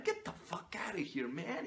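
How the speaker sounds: hushed scornful whisper; whispered dismissal. Acted. Brushing off the whiny applicant in a scornful whisper. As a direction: breathe it out, scornful and soft.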